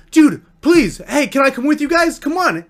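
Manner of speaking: high, insistent plea; mock begging. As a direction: imitate a friend begging to tag along. Friend begs to tag along.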